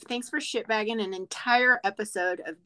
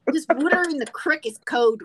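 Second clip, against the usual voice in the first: higher-pitched, hearty Pittsburgh Yinzer; Yinzer accent; 5 semitones higher, 4 dB louder than usual. Shown as a demonstration. Showing off for an admiring co-host, Yinzer accent. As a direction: pile on the Yinzer vowels. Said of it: "can you do a Yinzer accent".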